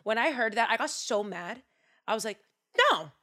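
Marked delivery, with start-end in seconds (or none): 2.9-3.1 Titanic line. Retold or imitated. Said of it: "That's a line from Titanic".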